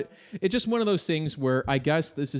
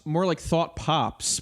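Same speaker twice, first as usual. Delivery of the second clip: slow mocking pun; 2 semitones higher, much slower than usual. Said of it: "you're probably thinking this".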